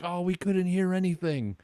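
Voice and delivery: put-on high-pitched heavy Indian accent. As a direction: imitate a thick Indian accent. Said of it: "very heavy Indian accent".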